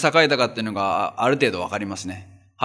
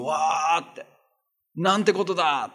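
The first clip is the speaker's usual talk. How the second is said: mock panicked cry; 3 semitones higher, 4 dB quieter than usual. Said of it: "もう恐怖でおののくわけですよ".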